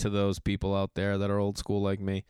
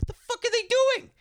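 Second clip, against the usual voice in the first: high, squeaky mock old man complaining; mock old men yelling at each other; cranky old man. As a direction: imitate the old guys griping while lifting. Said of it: "going nuts".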